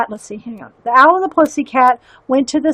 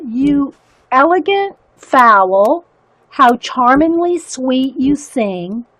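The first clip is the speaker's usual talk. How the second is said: slow, lightly read-aloud verse for viewers; poem reading. Acted. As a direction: savour each line of the poem. Reads poem aloud slowly.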